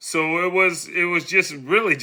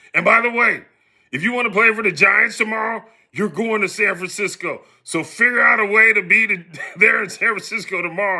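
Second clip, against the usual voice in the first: heated, animated yelling with raised voice; 4 semitones higher than usual. Retelling what a man yelled at the speaker, imitating his yelling. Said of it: "He's yelling at me".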